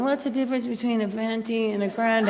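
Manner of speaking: a hint of a clueless customer, quiet and amused; mimicking the customer. Mocking the Starbucks lady holding up the line, softly. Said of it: "and then she goes".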